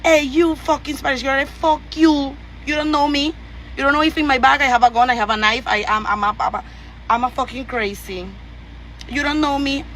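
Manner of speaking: lightly ape the men who yell at her; hint of a jeering, threatening man; mocking Guyanese men. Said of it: "All Guyanese man know to say".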